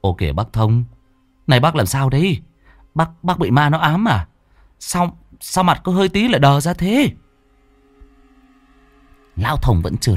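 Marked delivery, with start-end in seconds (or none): 0.0-7.1 put-on puzzled young driver. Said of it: "nó quay sang cất giọng".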